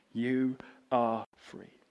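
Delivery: slow, soft and tender; gentle reassurance. Acted. Englishman quietly reassuring the disbelieving woman, slow and tender. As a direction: say it gently so she believes. Repeated gently, papers pushed.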